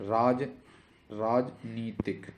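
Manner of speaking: राजनीतिक drawn out, parted after राज; slow sounding-out. Shown as a demonstration. Teacher sounds out the spelling. (राजनीतिक को धीरे तोड़कर)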